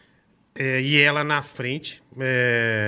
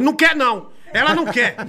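mock protective yell; 5 semitones higher, faster than usual. Father blocking a boy's flower, mock yelling. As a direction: shout the boy off, half joking. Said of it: "ela falou".

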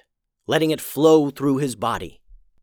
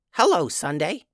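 little goblin; 4 semitones higher than usual. Acted. Goblin greets the cat.

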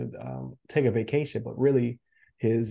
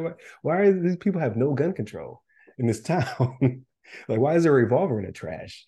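mock bafflement; 3 semitones higher, 4 dB louder than usual. Joking as game hero puzzled by guns in town, mock baffled. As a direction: question it incredulously, half laughing.

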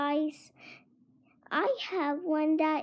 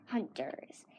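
whispering; 7 semitones lower, 10 dB quieter than usual. Acted. Ninja carrot hunter, secretive.

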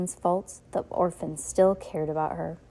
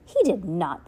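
mild shout; 4 dB louder than usual. Acted. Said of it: "Violet shouted".

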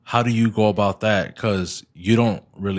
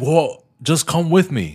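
higher, slow mock voice of his partner; imitating his partner; 7 semitones higher, slower than usual. Husband mimicking his partner's shopping invite in a high, slow mock voice. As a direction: pitch it up and drawl it out, lightly teasing. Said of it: "she'll be like".

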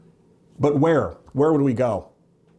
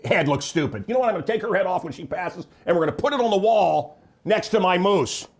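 snide comeback, pitched a bit higher; mock comeback; 5 semitones higher than usual. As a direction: fire back at the wife, smug. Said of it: "And I'll say".

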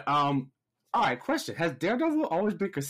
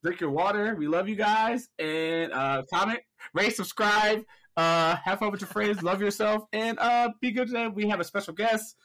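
higher-pitched welcome to the audience; host greeting listeners, pitched up; podcast host intro; 4 semitones higher than usual. Real, not acted. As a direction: rattle off the show's sign-on to the fans. Hosts the show intro.

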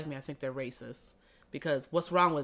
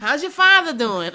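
mocking nosy townie; 11 semitones higher, 14 dB louder than usual. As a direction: parody the gossip's fake sympathy, pitched way up. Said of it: "why y'all talk like that".

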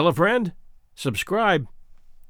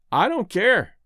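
blithely; 5 semitones higher, 3 dB louder, slower than usual. Acted. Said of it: "said Miss Asher blithely".

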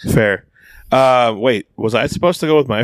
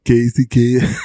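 mumbled, mushy radio voice; marbles in mouth. Retold or imitated. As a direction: say it like your mouth is full of marbles. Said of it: "you had marbles in your mouth".

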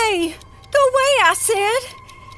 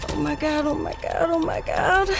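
softer, dismayed repeated oh my God; despairing murmur; 3 semitones lower, 5 dB quieter than usual. Real, not acted. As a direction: murmur it in growing dread. Mother realizing disaster.

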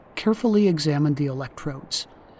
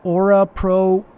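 echoing prayer; 4 semitones higher, 7 dB louder, slower than usual. A narrator's reading. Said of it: "Cotto was saying after him".

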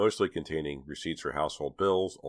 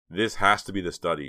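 growing excitement; 3 semitones higher, 6 dB louder than usual. Acted. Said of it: "with growing excitement".

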